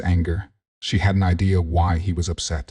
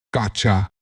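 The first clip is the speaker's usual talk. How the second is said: screech; 2 semitones higher than usual. A narrator's reading. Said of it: "it screeched".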